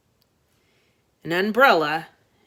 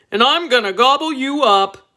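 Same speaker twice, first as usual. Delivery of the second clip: loud, higher, gleeful monster voice; hungry dragon; 7 semitones higher, 7 dB louder than usual. Acted. Dragon threatening the boy, loud gleeful monster voice.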